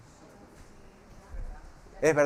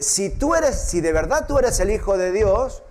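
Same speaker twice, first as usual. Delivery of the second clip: devil's challenge; 4 semitones higher, 4 dB louder than usual. Retold or imitated. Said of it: "le dice".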